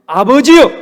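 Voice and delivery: loud cry of 아버지여 to heaven; Jesus cries out to the Father at the tomb; calling out. Acted. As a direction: cry 아버지여 out before the crowd.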